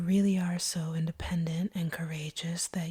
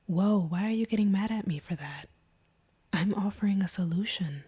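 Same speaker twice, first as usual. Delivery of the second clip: out of the whisper, a louder voiced "whoa"; startled protest; 2 semitones higher, 5 dB louder than usual. Vampire startled when the hunter gets mad, protesting aloud. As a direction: caught off guard, push back.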